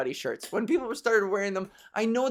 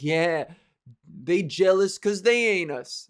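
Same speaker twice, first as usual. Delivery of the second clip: louder, slow smug bro imitation; mock douchebag; 4 dB louder, slower than usual. Mocking a douchebag in the shirt at a restaurant, slow smug swagger. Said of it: "sauntering around being like".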